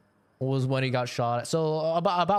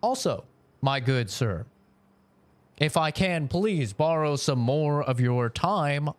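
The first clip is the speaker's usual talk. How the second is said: a lightly voiced, very formal polite customer; mock-posh order, only slightly put on; overly polite gentleman. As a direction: ask for chicken like a courteous old-timey gent. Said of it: "Do an accent of a".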